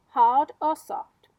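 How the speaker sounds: slow, loud, kindly spider asking; Miss Spider's question. Acted. Miss Spider asking James about his bed, slow and loud. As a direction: draw it out like a fussy host.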